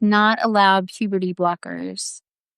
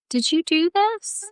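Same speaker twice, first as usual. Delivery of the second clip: scolding question; 8 semitones higher than usual. Acted. Gently scolding question to a wrongdoer.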